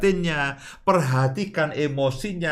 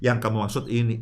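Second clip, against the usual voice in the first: soft, gentle, lower question; kind asking; 4 semitones lower, 4 dB quieter, faster than usual. Shown as a demonstration. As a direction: ask it kindly, no edge. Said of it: "tapi dengan baik kita katakan". (bertanya dengan lembut dan baik)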